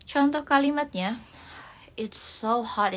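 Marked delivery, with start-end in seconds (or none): 2.0-3.0 whisper. Shown as a demonstration. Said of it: "repeats example sentence".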